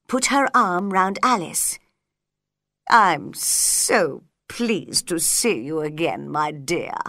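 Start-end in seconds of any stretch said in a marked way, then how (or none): 2.9-6.3 fond Duchess. A narrator's reading. Duchess greets Alice fondly. 6.3-7.0 fond Duchess, lower and soft. A narrator's reading. Duchess greets Alice fondly.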